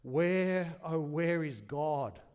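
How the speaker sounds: loud slow trembling wail. A narrator's reading. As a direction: wail it into the night, stretched out. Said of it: "wailed into the nebulous night".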